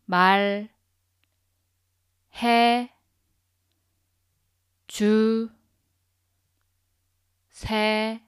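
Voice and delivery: 다 시 말 해 주 세 요 one syllable at a time with long gaps; sounding out syllables. Shown as a demonstration. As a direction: split 다시 말해주세요 into separate syllables. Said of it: "One more time".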